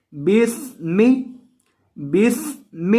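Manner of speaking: باسم with a whistling hiss on the س; whistled seen. Shown as a demonstration. Teacher demonstrating the whistling س in باسم. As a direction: say باسم joining ب to the hissing س, no alif. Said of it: "سین کے اندر سیٹی کی آواز".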